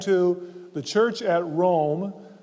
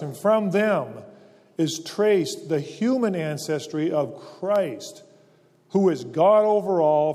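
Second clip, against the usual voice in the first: scripture reading. Acted. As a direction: read Paul's words with weight. Reads scripture passage aloud.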